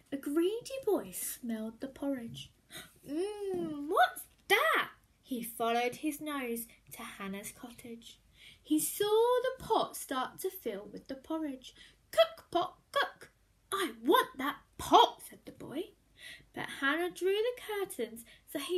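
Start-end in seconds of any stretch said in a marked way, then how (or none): 3.1-4.9 put-on curious boy. A narrator's reading. Greedy boy sniffing. 12.1-15.2 put-on higher, louder boy voice; greedy boy. A narrator's reading. Greedy boy copies the magic words, high and eager.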